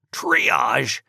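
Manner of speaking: loud, incredulous echo of the word; outraged disbelief. Acted. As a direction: throw the word back at him. Father outraged at triage word.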